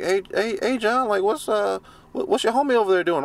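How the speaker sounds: lightly voiced white guy, high and quick. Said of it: "talking to me like".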